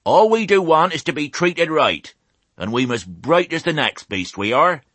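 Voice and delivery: high, rustic speech to the flock. A narrator's reading. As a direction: address the crowd as a country old ewe. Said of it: "Raising her voice".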